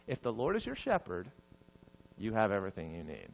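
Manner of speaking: soft voice, dropping low at the end; hushed reassurance. Real, not acted. Preacher repeats the promise to congregation, hushed and reassuring. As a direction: let it settle gently, softly.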